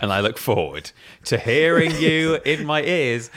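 slow, lilting mimicry, up and down in pitch; imitated over-earnest, drawn-out delivery; Simon Miller impression. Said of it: "the inflection of his voice goes up and down and up".

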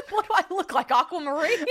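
repeating it high while laughing; giggling echo. Real, not acted. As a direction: crack up quoting the joke. Repeating friend's joke, cracking up.

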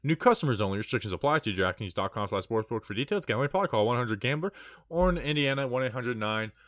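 upbeat podcast ad read; hyped betting ad. Acted. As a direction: sell it like a sponsor spot. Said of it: "You crushed that ad read".

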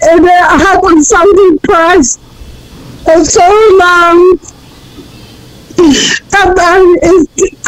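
real tears catching between phrases; halting, tearful confession; crying. Real, not acted. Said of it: "I'm sorry for crying".

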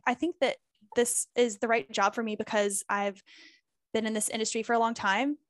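ends rising like a question; up talk. Shown as a demonstration. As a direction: turn the line up at "time" as if asking. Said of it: "when you start talking like this".

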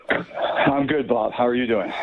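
slightly winded after a workout; out of breath. Real, not acted. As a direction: talk while catching your breath. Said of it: "Are you out of breath?".

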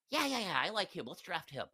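a hint of a giddy old boss; Mark Davis impression. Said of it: "I just imagine him speaking like that".

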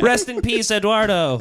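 laughing high and loud. Pretend. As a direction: laugh through the words. Quoting shirt, laughing.

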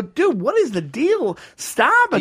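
retold exasperation, climbing high; slow appeal rising into a high protest; exasperated. Confronting the guy who kept mumbling, retold exasperation.

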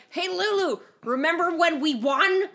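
high, playful call; mock-chummy high-pitched question; calling out to a character. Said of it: "Just be like".

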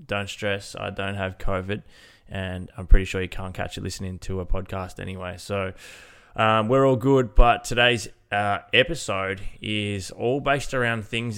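blocked nose, nasal voice. Real, not acted. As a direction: talk through a stuffy nose. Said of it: "the nasally voice that you'll probably hear in today's episode".

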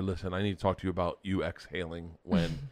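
low, soft replay of a calm talk. Retold or imitated. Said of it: "I very calmly said to her".

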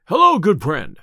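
loud hail; loud, friendly call to get attention. A narrator's reading. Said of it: "cried Robin".

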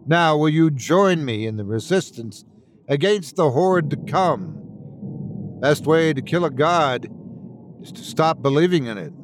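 urgent rallying address; Alistair, earnest podcaster, imploring. Acted. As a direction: appeal to listeners to join the resistance. Alistair exhorts his podcast listeners.

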